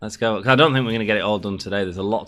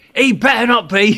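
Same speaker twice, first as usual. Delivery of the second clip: shrill, very loud, high-pitched yell; 14 semitones higher, 9 dB louder than usual. Retelling the speaker's mum calling through, retelling shouting from another room. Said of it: "me mum shouts through".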